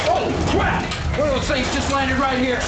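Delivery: high, loud alarmed yelling; panicked shout. Acted. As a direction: shout it like something just crashed beside you. Alien craft lands beside soldier.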